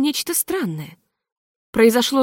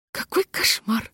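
slow, voiceless Какой кошмар; whisper; 4 dB quieter, slower than usual. A narrator's reading. Hostess repeats it in a horrified whisper. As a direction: whisper Какой кошмар almost without breath. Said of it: "шептала хозяйка".

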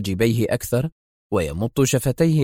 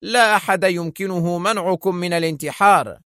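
irritable; 7 semitones higher than usual. A narrator's reading. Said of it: "ثم أضاف في عصبية".

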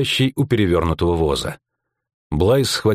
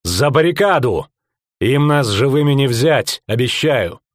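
rallying cry; 4 semitones higher than usual. A narrator's reading. Captain rallying soldiers.

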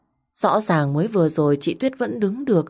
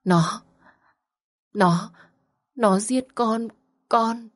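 breathless whisper; 5 semitones higher, much slower than usual. Acted. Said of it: "giọng nói thều thào như đứt hơi".

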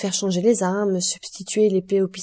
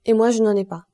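chilling tone; 3 semitones higher, 6 dB louder than usual. A narrator's reading. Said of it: "un ton qui fit frissonner Morel".

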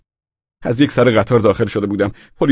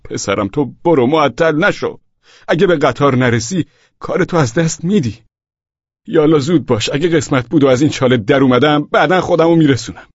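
raised, urging mother's call; louder, higher, hurrying him along; calling from the pit; 5 semitones higher, 4 dB louder than usual. A narrator's reading. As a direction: call up to your son from down a hole. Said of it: "از ته گودال صدایم زد".

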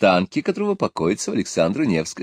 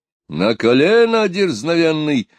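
higher, louder angry command; angry shout; 6 semitones higher, 3 dB louder than usual. A narrator's reading. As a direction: bark the order to kneel. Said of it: "закричал Пугачёв". (Пугачёв гневно приказывает встать на колено)

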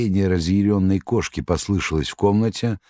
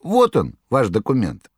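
much higher jester voice; Koroviev; 10 semitones higher than usual. Acted. Koroviev reassuring the master, high clownish voice. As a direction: jeer like a clownish trickster.

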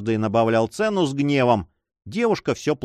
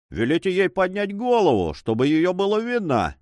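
rough shout; 6 semitones higher than usual. A narrator's reading. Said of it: "грубо закричал третий".

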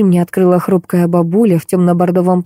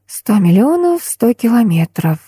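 absent repeating; 4 semitones higher, slower than usual. Acted. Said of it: "машинально повторила я".

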